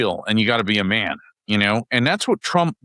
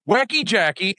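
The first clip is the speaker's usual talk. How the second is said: Trump's nickname; 7 semitones higher than usual. Retold or imitated. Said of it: "and he goes".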